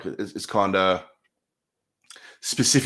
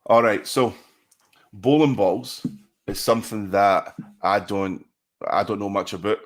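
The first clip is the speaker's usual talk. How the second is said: talking about bowling in a light Scottish accent; relaxed chat with a mild Scottish burr; 3 semitones lower than usual. Shown as a demonstration. Chatting about his brother's bowling, lightly Scottish. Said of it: "that's my Scottish accent".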